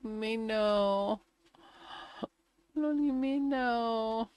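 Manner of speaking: high, incredulous protest; can't believe the answer; indignant disbelief. Retold or imitated. Protesting the Navy's no.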